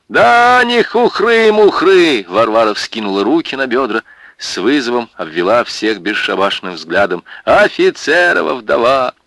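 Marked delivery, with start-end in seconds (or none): 0.1-2.3 much higher, louder, slow; defiant outburst. Acted. Варвара boasting to everyone, defiant. 7.4-9.1 louder, higher, proud; proud boast. Acted. Варвара proclaiming herself, proud. Varvara defiant.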